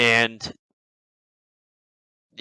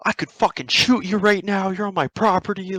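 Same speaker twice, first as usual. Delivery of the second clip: imitated threat in a raised pitch; angry threat; 8 semitones higher than usual. Armed ex-military stepdad threatens trespassers, imitated angry threat. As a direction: act out an indignant warning.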